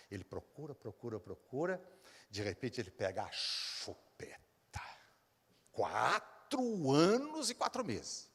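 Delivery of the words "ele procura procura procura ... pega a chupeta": hushed, breathy storytelling whisper; suspense whisper. Retold or imitated. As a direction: lean in and whisper the reveal. Suspense in retold scene.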